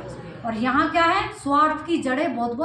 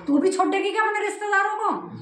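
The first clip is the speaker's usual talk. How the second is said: higher, quick retold accusation; blunt challenge; 7 semitones higher, faster than usual. Husband challenges wife about leaving her relatives, blunt imitated question. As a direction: imitate someone confronting her point-blank. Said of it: "उसे ऐसे बोला सीधा".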